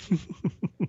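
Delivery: brief breathy laugh to cool down; short laugh after rant. Real, not acted. Laughing at himself after ranting about advocates, short laugh. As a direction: laugh at getting worked up. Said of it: "Got me all fired up".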